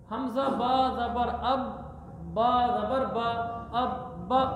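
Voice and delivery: slow letter-by-letter spelling chant; spelling drill. Shown as a demonstration. Teacher spelling the word aloud for pupils, slow chant. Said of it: "teacher spells out the word".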